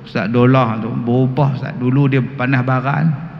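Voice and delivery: imitated wife. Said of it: "isteri kata apa".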